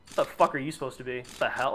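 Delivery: a light sneer at a silly costume; mock disdain. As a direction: scoff at the kid's costume, half joking. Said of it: "say it with such disdain".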